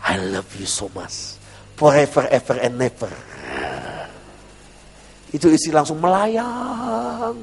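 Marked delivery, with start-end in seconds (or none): 0.0-3.1 low, soft romantic murmur; tender sweet-talk. Acted. Husband hugging his wife after church, tender sweet-talk. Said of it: "saya peluk istri saya". 6.0-7.3 drawn-out swoon. Retold or imitated. Imitates wife floating on praise.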